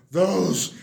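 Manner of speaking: slow angry burst at the bunnies; flaring anger. Acted. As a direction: drag out each word in fury. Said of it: "flared Mister McGreely".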